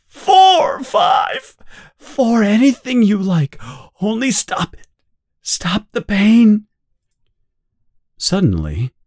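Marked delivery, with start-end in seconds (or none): 0.1-6.7 crying for mercy. Acted.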